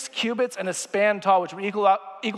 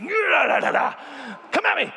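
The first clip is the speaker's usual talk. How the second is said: taunting shout; 6 semitones higher than usual. Retold or imitated. Goliath taunting the Israelites.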